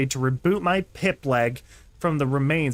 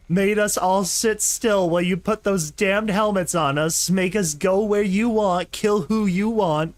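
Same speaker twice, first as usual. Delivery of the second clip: orc voice; 2 semitones higher than usual. Acted. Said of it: "It's so fun to do".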